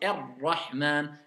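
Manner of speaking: "Ar-Rahman" slow, light roll on the r; slow recitation. Shown as a demonstration. Teacher modelling Ar-Rahman slowly for pupils. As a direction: draw out "Ar-Rahman" gently. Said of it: "le ra, c'est".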